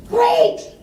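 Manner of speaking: sudden high mock enthusiasm; mock cheer. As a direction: toss off a breezy, overdone "Great!". Mock cheer at a priest's reply.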